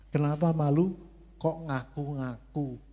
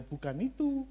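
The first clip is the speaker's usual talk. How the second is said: voice of God; 8 semitones higher than usual. Retold or imitated. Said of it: "Tuhan bilang".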